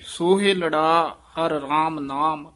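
brief pause after ਨਾਮ. Shown as a demonstration. Teacher marking the pause in the line. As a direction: stop briefly after ਸੋਹਿਲੜਾ ਹਰ ਰਾਮ ਨਾਮ. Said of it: "ਇੱਥੇ ਵਿਸਰਾਮ ਹੈ".

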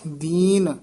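ਦੀਨ held long, then a slight break; brief pause. Shown as a demonstration. Teacher showing a short pause, ਦੀਨ drawn out and separated. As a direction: set ਦੀਨ apart. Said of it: "ਇੱਥੇ ਯਮਕ ਲਾ ਦੇਣੀ ਹੈ".

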